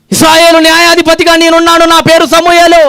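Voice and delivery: proclaiming loudly. Acted. Samuel calling all Israel, proclaiming his name aloud. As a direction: call out to the whole crowd. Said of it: "గట్టిగా అరిచి చెప్తున్నాడు".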